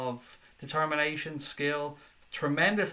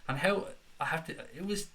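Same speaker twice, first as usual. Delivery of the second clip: tripping over the words; stumble, too excited to get it out; stuttering; 3 semitones higher than usual. Real, not acted. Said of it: "I'm stuttering here 'cause I'm".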